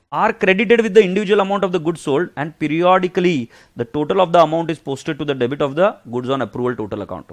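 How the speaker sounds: reading the textbook line aloud, slow and measured. Acted. Teacher reading the accounts rule to students, slow and measured. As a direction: spell it out slowly from the book.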